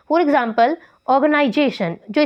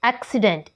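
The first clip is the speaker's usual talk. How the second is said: "एक्सीडेंट" with the force on "एक्"; first-syllable stress; 3 semitones lower, 3 dB quieter, much faster than usual. Shown as a demonstration. Teacher giving learners an example, "एक्सीडेंट" stressed on "एक्". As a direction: lean on "एक्" in "एक्सीडेंट", ease off after it. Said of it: "इसमें भी first syllable पर लगी है".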